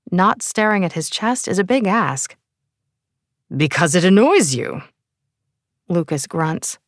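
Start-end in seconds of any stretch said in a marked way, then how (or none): 3.5-4.8 put-on English accent. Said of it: "with an English accent".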